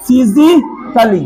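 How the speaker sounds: slow "फिजिकली" with a short "klee" ending; silent A. Shown as a demonstration. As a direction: sound out "फिजिकली" slowly without "ai". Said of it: "तो क्या पढ़ेंगे?". ("फिजिकली" धीरे, ए silent रखकर)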